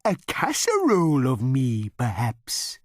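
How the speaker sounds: very high, slow, offering cow voice; cow character. A narrator's reading. Cow adding a suggestion to diners, in a very high, slow offering voice. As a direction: add the casserole as a helpful extra. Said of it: "it added".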